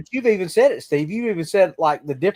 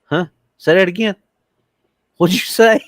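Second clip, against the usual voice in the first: higher, louder call for a repeat; baffled listener; 4 semitones higher, 5 dB louder than usual. Acted. Listener straining to follow a strange accent, acting baffled. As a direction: ask as if you caught none of it. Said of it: "I'm even like".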